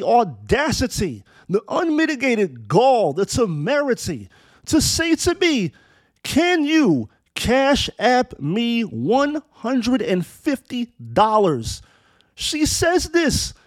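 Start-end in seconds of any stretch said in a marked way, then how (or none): 6.2-11.8 slow, higher mock request, dead serious; a retold woman's earnest ask for money, slow and higher. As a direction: drag out the ask like she means it. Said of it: "in all seriousness".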